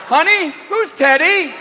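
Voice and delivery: slow suspicious wife. Acted. Wife asks.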